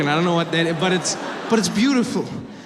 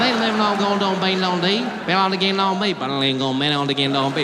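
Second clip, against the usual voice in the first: mumbled Southern drawl. Retold or imitated. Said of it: "a band's concert in their mouth".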